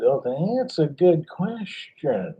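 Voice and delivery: slow, stretched-out reply; drawn-out pondering. Retold or imitated. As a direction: imitate a mentor savoring the question. Imitates seminar speaker pondering his question.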